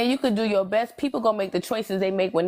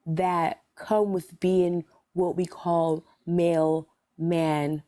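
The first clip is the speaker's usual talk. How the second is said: patient explaining; slower than usual. Real, not acted. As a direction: spell it out slowly and patiently. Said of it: "your whole energy shifted when you went to".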